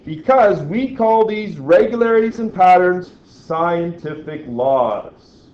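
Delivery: deep newscaster read. Pretend. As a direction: read it like a news anchor. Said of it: "He says in a deep, like, newscaster voice".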